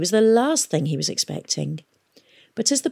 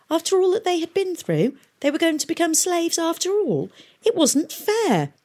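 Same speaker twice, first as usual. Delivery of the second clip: put-on angry boy's thoughts; 12 semitones higher than usual. A narrator's reading. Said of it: "he felt more angry than afraid".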